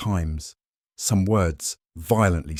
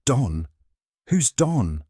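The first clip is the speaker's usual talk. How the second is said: startled; 6 semitones higher, slower than usual. A narrator's reading. Shocked question.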